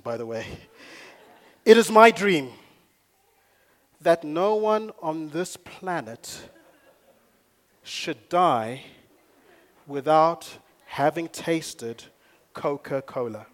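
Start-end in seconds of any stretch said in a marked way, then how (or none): 1.6-13.5 put-on American-accented quote, loud start, slowing down. Preacher quoting the company president's dream, in an American accent. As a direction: declare it slowly in an American accent. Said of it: "That's my American accent".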